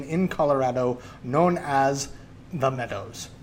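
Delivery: conspiratorial Scottish brogue telling a secret; Scottish accent. Retold or imitated. Movie dad explaining the secret society, in a Scottish accent. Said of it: "doing this Scottish accent".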